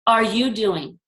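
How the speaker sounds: mock the voice that says you can't; lightly voiced self-doubt, accusing; accusing inner voice. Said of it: "And the voice came and said".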